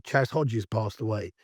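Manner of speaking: hoarse with a cold; croaky from allergies. Real, not acted. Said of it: "you can hear I've got a bit of lurgy".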